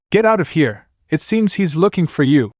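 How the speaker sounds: high, urgent warning; warning shout. Acted. Naruto to Anna, urgent warning shout. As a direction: get her to run. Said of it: "he shouted".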